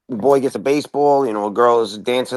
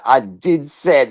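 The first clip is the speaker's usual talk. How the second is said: retold slip; 2 semitones higher, much slower than usual. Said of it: "I said".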